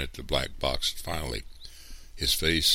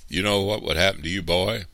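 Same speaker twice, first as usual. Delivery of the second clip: fast, loud, higher angry threat; exploding; 5 semitones higher, 7 dB louder than usual. A narrator's reading. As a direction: burst out threatening him. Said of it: "Mister Anderson exploded".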